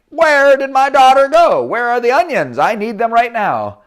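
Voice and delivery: high, loud fussing mom; impatient mother. Acted. Mother at the house demanding the onions, impatient.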